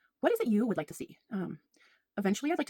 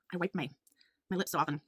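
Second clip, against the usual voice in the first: wet, slurred speech; drooling; 4 dB quieter than usual. Real, not acted. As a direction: talk like a bit of drool in the mouth. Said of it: "I sound like I'm drooling".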